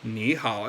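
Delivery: "ni hao" with both syllables dipping low; laboured "ni hao", two separate dipping tones; two third tones. Shown as a demonstration. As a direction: say "ni hao" with no tone change, low on each word. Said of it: "it's a little harder to say".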